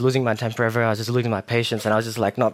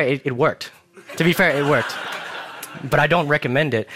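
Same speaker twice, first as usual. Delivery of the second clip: chuckling through the words; laughing. Real, not acted. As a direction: laugh it off, sheepish. Laughing at own outburst.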